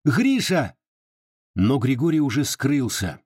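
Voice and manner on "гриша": higher call to someone galloping off. A narrator's reading. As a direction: call after him, a touch raised. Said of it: "крикнула".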